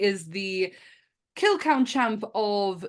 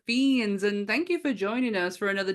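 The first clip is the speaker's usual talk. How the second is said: spooky host; 4 semitones higher than usual. Acted.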